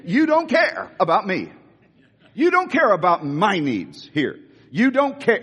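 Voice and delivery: a lightly acted accusing whine. Martha accusing Jesus of not caring, mock hurt. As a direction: play Martha accusing her guest, not too hard. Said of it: "to assaulting you".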